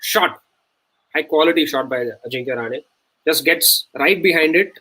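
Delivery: quick TV cricket commentary; commentator voice. Acted. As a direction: call it like a commentator. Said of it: "commentating on the shot".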